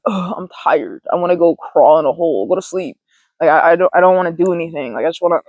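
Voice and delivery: low, drained sigh of a voice; acted tiredness. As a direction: play someone who wants to crawl away. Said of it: "leave that interaction or experience feeling like".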